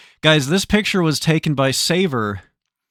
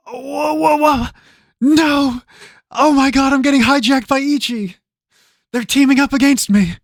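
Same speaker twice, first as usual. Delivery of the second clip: high, loud panicked shouts; panicked yelling; 12 semitones higher, 7 dB louder than usual. Real, not acted. Streamer shrieks as other puzzlers team up against him. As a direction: yelp it out as rivals gang up.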